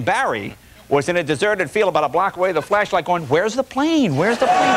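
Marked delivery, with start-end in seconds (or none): 3.3-4.8 rising to a squeaky high cry; frantic searching. Retold or imitated. Man searching a dark field for the plane, rising squeaky cry. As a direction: call out desperately into the dark. Marion Barry searching with flashlight.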